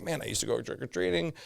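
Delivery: high-pitched mock Asian accent on stage; doing his neighbor's Asian accent for the crowd; Asian accent impression. Comic telling a stand-up bit in an Asian accent. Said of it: "bring that on stage and be like".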